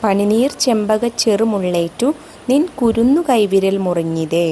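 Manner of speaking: slow, measured verse reading with drawn-out vowels; poem recitation. Acted. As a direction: recite the verse slowly, lingering on phrase ends. Recites verse before explaining.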